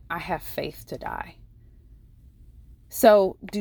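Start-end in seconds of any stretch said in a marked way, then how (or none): 0.1-1.4 much softer, almost under the breath; hushed quote. Retold or imitated. Nurse recalling the patient's statement to the congregation, hushed. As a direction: drop the voice right down for the words. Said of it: "by this simple statement".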